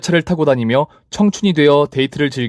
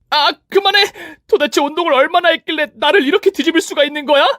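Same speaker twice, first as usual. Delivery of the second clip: much higher pained protest; shrieking rival. Acted. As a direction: rival begging her to stop. Rival cries out. (훨씬 높게 비명 지르는 상간녀)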